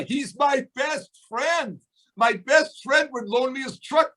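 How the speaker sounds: slow, high, ringing shout of "He's my best friend"; emphatic shout. Real, not acted. Speaker driving home his point to the audience with a slow emphatic shout. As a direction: belt it out slowly, each word landing.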